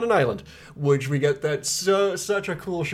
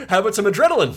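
laughing; 12 semitones higher, 5 dB louder, much faster than usual. Pretend. Mocking brain's voice, laughing.

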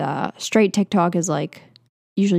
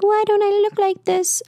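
high, whiny put-on voice, much higher; whiny self-quote; 13 semitones higher than usual. To her boyfriend about model photos, a high mock whine. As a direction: whine it like a jealous girlfriend.

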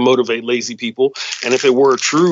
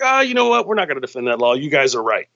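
mock Obama. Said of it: "then Obama's like".

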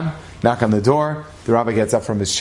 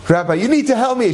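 tearful plea; 9 semitones higher than usual. Retold or imitated. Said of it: "She bursts out crying".

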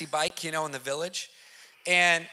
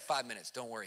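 much softer, calm and unhurried; cool and collected; 10 semitones lower, 14 dB quieter, faster than usual. Retold or imitated. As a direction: quietly settle a shaken guest. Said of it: "He's just cool and collected".

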